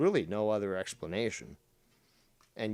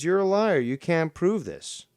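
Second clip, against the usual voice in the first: high, loud sneering quote, slowing on the second line; mocking Seaman; 6 semitones higher, 7 dB louder than usual. Streamer mocking Seaman's accusation with a loud sneer. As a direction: mimic an accuser calling him a liar. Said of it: "somebody like Seaman says".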